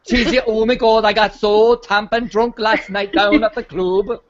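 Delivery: put-on a slow, light Welsh accent; lightly voiced Welsh lad. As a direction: imitate the reality show lad in a Welsh accent. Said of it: "so that's Welsh".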